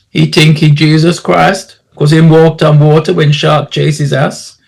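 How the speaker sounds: lightly voiced Caribbean local, mocking; a hint of a joking Caribbean character; teasing island local. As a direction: tease like an islander among drinking friends. Islander mocks the swimmer before friends.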